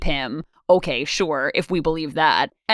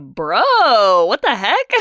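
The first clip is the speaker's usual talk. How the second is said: 1 startled; 3 semitones higher, 5 dB louder, much slower than usual. Retold or imitated. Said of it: "I was like".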